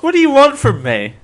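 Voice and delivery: ordinary delivery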